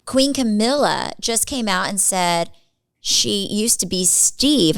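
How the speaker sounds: breathless mock gossip, stretching out the punchline; mom's gossip. Daughter imitates grandma sharing a fake Camilla video, high then very slow. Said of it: "and she said".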